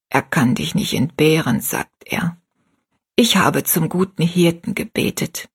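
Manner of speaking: a sick mother gently instructs her daughter; dying mother. Acted. Dying mother's long farewell.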